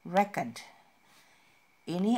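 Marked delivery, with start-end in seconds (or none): 0.1-0.6 record said REkord, first syllable stressed. Shown as a demonstration. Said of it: "bukan, tapi".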